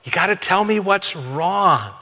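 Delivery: loud alarmed whoa easing into a slow, steady ask; startled parent. Retold or imitated. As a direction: parent catching a frantic child, then calming them. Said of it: "And you're like".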